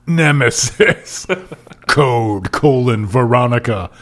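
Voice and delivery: dramatic promo read of book titles; hammed-up trailer announcer; mock announcer. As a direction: stretch each title, race the blurb. Reads out list of titles.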